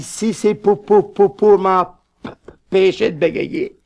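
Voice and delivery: stammering patient stuck on pour; stuttering. Acted. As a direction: stammer through, slowly. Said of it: "et puis bégayant".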